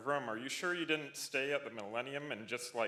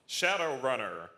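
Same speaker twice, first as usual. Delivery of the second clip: calling out; 3 semitones higher, 7 dB louder than usual. Real, not acted. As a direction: call the winner out to the room. Announcing winner to the crowd.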